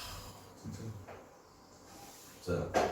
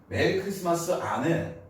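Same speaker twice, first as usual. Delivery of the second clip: English accent; 4 semitones higher than usual. Shown as a demonstration. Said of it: "입을 안 움직여".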